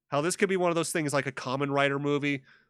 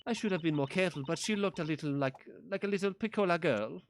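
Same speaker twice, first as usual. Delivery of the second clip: put-on Italian accent. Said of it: "do I have to do an Italian accent".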